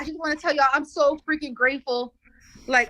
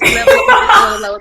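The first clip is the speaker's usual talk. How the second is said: louder, laughing through the words; laughing with excitement; 7 semitones higher, 10 dB louder than usual. Real, not acted. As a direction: laugh it out, too thrilled to stay calm. Grateful client laughing, excited.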